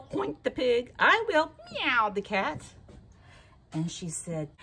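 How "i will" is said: high, loud eager cat voice; excited high kitty voice. Acted. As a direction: squeal yes to the bread.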